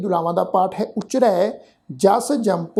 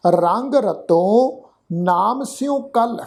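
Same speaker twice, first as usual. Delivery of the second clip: slow recitation; much slower than usual. Shown as a demonstration. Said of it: "ਕਲ ਸ਼ਬਦ ਤੋਂ ਬਾਅਦ ਵਿਸ਼ਰਾਮ ਚਿੰਨ੍ਹ ਹੈ".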